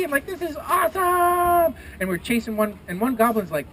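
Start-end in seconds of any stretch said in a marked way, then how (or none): 0.3-1.7 high, stretched-out whoop; slow, soaring cry of delight; thrilled. Acted. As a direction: shout it like you're mid-swoop. Thrilled rider on swooping griffin.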